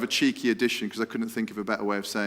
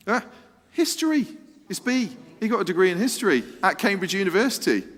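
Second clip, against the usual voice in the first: excited reveal; 8 semitones higher, faster than usual. Real, not acted. Excited answer reveal to the audience.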